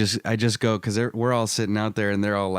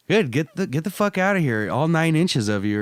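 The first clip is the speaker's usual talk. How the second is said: higher mock snap; girlfriend's retort; 5 semitones higher than usual. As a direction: fire off her put-down. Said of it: "she goes".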